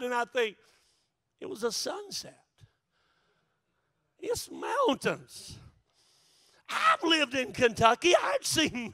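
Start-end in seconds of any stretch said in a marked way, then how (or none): 1.4-5.6 unimpressed deadpan. Retold or imitated. Pastor's unimpressed inner reply.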